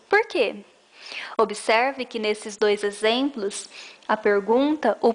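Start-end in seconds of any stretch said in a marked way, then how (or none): 0.1-0.6 "Por quê?" with quê pushed high and strong; stress on quê. Shown as a demonstration. Teacher shows a stressed final "quê" to students. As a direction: land hard on "quê" at the end. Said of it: "pronunciado com mais força no final de frase".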